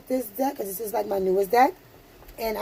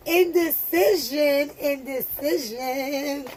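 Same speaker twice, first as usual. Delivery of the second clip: drawn out; 3 semitones higher, slower than usual. Real, not acted. Drawn-out card reading.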